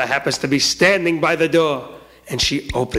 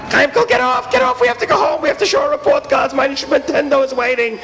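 very high, impatient screaming; acted high-pitched clamour; frantic shouting; 7 semitones higher than usual. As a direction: yell like a busload of kids. Whole bus shouts him off.

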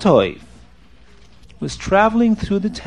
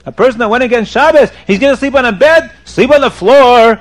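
loud, higher, incredulous rebuke; indignant scolding; 5 semitones higher, 6 dB louder than usual. Acted. Rabbi denies a sinner his bed, indignant scolding. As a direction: scold him in disbelief, then order him.

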